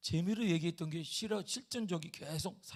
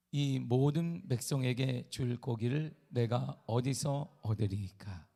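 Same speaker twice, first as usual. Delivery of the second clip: slow, measured Bible reading; solemn scripture reading; 4 semitones lower, slower than usual. Acted. Pastor reading Ezekiel to the church, slow and solemn. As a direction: read each word with weight.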